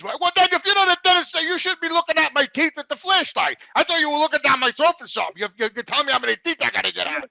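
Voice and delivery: retelling how he yelled at the doctor; retold yelling. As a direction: complain hotly, voice up. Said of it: "you're yelling at him".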